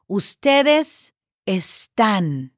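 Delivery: "ustedes están" slowly, each syllable clear; slow careful Spanish. Shown as a demonstration. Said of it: "the other way that we use the verb".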